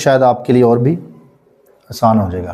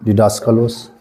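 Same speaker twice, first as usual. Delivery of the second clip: डिडास का लॉस run together at normal speed; teacher models the joined, fluent reading; read smoothly; 3 semitones lower than usual. Shown as a demonstration. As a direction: say डिडास का लॉस in one quick go. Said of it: "तेज़ी में पढ़ देना".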